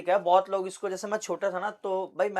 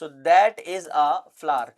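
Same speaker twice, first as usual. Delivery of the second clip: slow model sentence; 6 dB louder, much slower than usual. Shown as a demonstration. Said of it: "हम that लगाते हैं".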